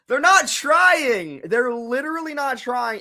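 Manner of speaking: leaning hard on not, fed up; exasperated outburst. Real, not acted. Fan exasperated at the team.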